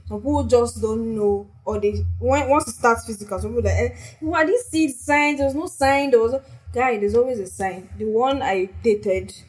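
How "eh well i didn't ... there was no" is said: high whiny excuse-maker, mocking; a hint of a clueless denier. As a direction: imitate someone shrugging off red flags. Mocking people who deny signs.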